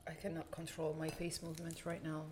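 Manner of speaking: talking through a burning tongue. Real, not acted. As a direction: speak as if the spicy heat burns your mouth. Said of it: "My tongue is burning".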